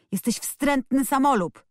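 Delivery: high-pitched narrated shout; acted angry cry, moderately loud. A narrator's reading. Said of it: "krzyczał Colin".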